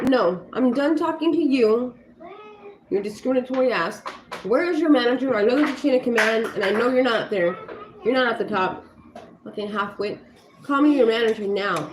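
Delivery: retold angry demand, fairly forceful; pissed off. Customer demanding the manager from a rude clerk, pissed off. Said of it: "I was pissed".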